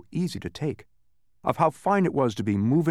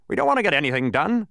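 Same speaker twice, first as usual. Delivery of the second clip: snapping; 5 semitones higher, 5 dB louder, faster than usual. A narrator's reading. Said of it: "snapped another angrily".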